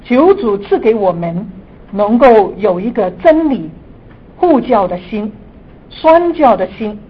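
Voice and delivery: earnest prayer voice. Acted. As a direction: pray fervently, building to emphasis. Opening prayer before teaching.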